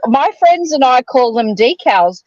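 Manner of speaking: "decals" like tee-kowls, the American way. Shown as a demonstration. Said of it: "you're talking about decals".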